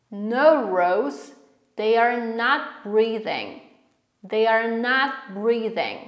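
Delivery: measured, with gaps between words; chunked pronunciation drill. Shown as a demonstration. Teacher drilling the answer for repetition, in separate chunks. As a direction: model it piece by piece for learners. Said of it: "Będziemy sobie tak trochę dzielić to wszystko".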